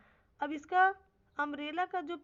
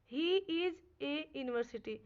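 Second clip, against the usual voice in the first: slow, spaced-out teacher's reading; measured example sentence, with gaps between words; much slower than usual. Shown as a demonstration. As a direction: say the English sentence word by word. Teacher reads out example translation.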